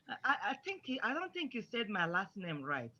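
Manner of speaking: soft, hesitant, deferential start; respectful correction. Shown as a demonstration. Child correcting an uncle or family friend, hesitant and respectful. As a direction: tentatively correct an elder, keeping it quiet. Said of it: "say it in a respectful way".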